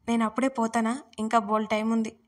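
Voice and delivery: usual speaking voice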